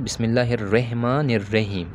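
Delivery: बिस्मिल्लाहिर्रहमानिर्रहीम with रे sound and light ह; wrong common recitation. Shown as a demonstration. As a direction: say बिस्मिल्लाहिर्रहमानिर्रहीम with the Urdu रे vowel. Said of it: "लेकिन हम जब पढ़ते हैं तो".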